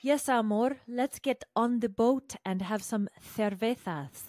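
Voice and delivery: lightly voiced romantic boyfriend; mock Luke voice. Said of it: "So he's like".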